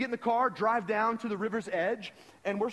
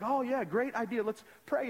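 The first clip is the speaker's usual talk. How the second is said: higher, falsely keen agreement; mock-eager, raised pitch; put-on spiritual agreement; 6 semitones higher than usual. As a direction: play along as the pious guest. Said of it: "I'm trying to act spiritual".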